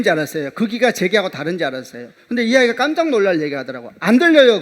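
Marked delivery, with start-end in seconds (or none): 4.0-4.6 mock girl's answer. Student answer, retold.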